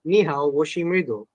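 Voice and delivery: rusty Mandarin with English accent; halting learner's Mandarin greeting; foreigner speaking mandarin. Shown as a demonstration. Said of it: "my Chinese is a bit rusty".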